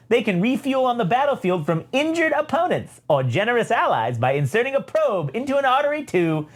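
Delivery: high, gleeful mad-inventor droid; high-pitched theatrical villain; evil droid. Acted. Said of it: "evil ass triple zero pops in and says".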